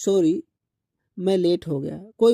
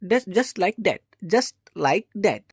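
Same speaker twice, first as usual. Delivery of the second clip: very slow and even, each word apart; slow model sentence; much slower than usual. Shown as a demonstration. Teacher modelling the question for students, very slow. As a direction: lay it out slowly for learners.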